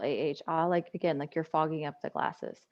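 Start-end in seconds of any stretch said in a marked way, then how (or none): 0.0-0.7 saying ahh. Shown as a demonstration. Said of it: "and exhale".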